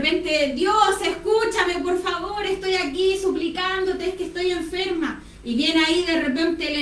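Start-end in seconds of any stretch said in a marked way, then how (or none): 0.5-5.2 higher-pitched mock supplication; acted pleading prayer. Acted desperate prayer to God.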